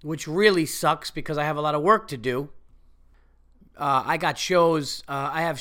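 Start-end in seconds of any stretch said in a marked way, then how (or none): 0.0-2.5 sick voice. Real, not acted. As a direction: voice rough from a cold. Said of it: "as you guys can hear".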